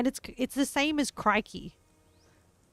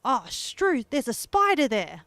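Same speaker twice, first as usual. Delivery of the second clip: mock surprise; 2 semitones higher, 5 dB louder than usual. Shown as a demonstration. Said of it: "for example".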